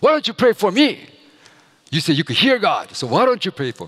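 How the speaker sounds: very high-pitched, fast, taunting, goading tone. Retelling someone daring the speaker to pray for them, mock-challenging. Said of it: "도전을 하는 거예요".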